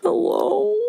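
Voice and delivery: high, drawn-out mock call; calling into emptiness. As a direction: call out hopefully to an empty room. Imagining calling out to absent listeners.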